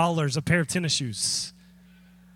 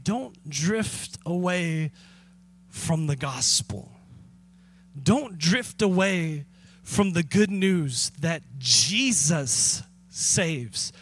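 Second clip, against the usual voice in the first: earnest plea; 3 semitones lower, slower than usual. Retold or imitated. Paul urging the church at Colossae, slow earnest plea. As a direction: plead gently and slowly with the church. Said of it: "He's saying".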